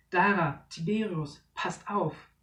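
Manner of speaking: loud warning shout; warning call. Acted. Father warning the children about the net, urgent. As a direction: warn them before it's too late.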